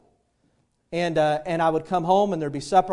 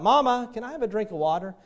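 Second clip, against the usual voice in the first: put-on higher-pitched little girl calling for mama; crying out; 5 semitones higher than usual. Little girl cries out to her mama at night, mock pleading call. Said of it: "she cries out".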